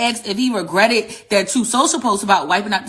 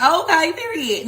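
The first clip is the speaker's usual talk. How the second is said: mild approval; 6 semitones higher, slower than usual. Retold or imitated. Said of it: "And I was like".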